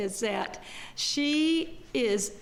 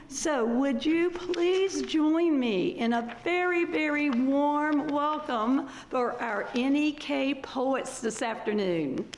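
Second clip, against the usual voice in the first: raised, ringing host's introduction; welcoming introduction; 3 semitones higher than usual. Real, not acted. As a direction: build up to the applause, then settle on the last words. Host formally welcomes poets onstage.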